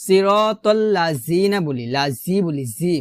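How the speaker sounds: "সিরাতাল্লাযিনা" with buzzing z for dh; "লাজি" and "জি" said with z; wrong z sound. Shown as a demonstration. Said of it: "একটা ভুল করি".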